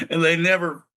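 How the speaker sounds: excited. Real, not acted. Excited telling of the punchline.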